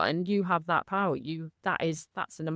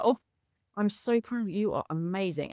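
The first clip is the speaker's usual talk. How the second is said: tender self-praise; 2 semitones higher than usual. Shown as a demonstration. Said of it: "I just say it like".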